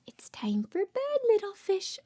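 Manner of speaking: hushed, singsong lullaby lines; bedtime story reading. Acted. Mother reads a bedtime book to her baby, hushed and singsong. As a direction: lull the baby toward sleep.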